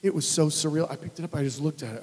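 ordinary talk

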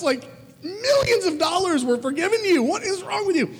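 high, incredulous outrage at the servant; can't believe what he's hearing; outraged disbelief. Real, not acted. Preacher aghast at the ungrateful servant, high disbelief.

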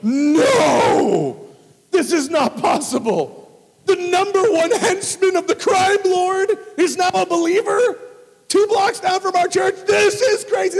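high, loud, disbelieving cry; astonished shout. Retold or imitated. Hosts hear the henchman is saved, an astonished shout. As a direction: shout it in amazement, building. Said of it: "They go".

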